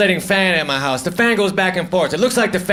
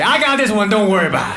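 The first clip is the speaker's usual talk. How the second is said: cocky; faster than usual. Retold or imitated. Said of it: "I get all cocky".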